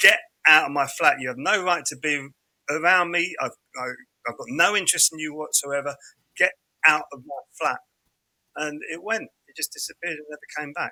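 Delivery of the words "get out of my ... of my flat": usual speaking voice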